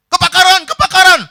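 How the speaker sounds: high, loud repeated fire cry; shouted alarm. Acted. Shouts reaching Bruce Lee in his dream, yelled. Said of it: "pada waktu teriakan".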